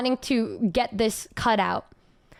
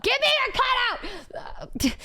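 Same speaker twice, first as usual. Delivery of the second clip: playful greedy shout; 11 semitones higher, much faster than usual. Pretend. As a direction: demand it like a greedy gremlin. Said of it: "Excuse me, who said that?".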